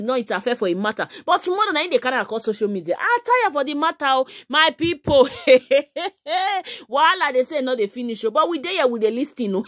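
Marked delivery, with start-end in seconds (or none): 5.3-6.8 high gleeful cackle; burst of laughter. Real, not acted. Vlogger laughing at the gossip with fans, gleeful cackle. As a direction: laugh at the scandal.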